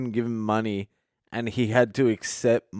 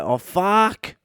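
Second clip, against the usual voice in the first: dismayed groan; 8 semitones higher than usual. Retold or imitated. Homeless man caught out, dismayed.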